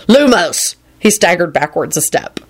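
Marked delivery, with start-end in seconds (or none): 0.1-0.8 sharp, higher call of the spell; spell cast. Acted. Casting a light spell.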